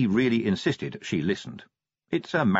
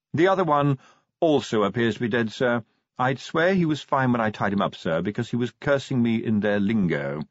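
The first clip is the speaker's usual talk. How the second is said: lightly voiced formal butler, higher; deferential butler; 3 semitones higher than usual. Butler reporting the other dead visitor, deferential.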